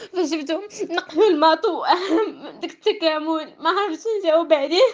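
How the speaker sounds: tearful, wavering voice; holding back tears; crying. Real, not acted. Recounting frustration while crying.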